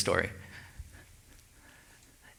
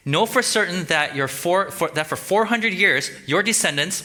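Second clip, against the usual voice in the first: raised, slow, emphatic reading; scripture reading; 5 semitones higher than usual. Acted. God tells Abram the terms of the contract, emphatic reading. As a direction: proclaim the verse deliberately, pitched up.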